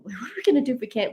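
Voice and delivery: fast, laughing panic; nervous laugh. Retold or imitated. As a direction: laugh through the nerves, quickly. Panicking in the cold.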